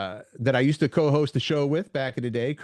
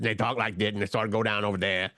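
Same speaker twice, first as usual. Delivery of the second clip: restrained mock Southern accent; 3 semitones lower than usual. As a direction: lightly put on a low Southern accent. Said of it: "it's a southern accent".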